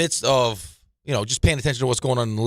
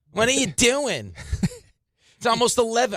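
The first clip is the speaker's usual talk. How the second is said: very high-pitched, scolding, telling-off voice; 12 semitones higher than usual. Retelling getting yelled at by his wife late at night: imitating his wife's voice. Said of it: "I like your voice for, uh, your wife".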